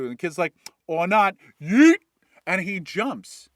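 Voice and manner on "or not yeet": gleeful yell. Acted. Kid leaping down the chute, gleeful shouted Yeet. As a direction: launch yourself off with a whoop.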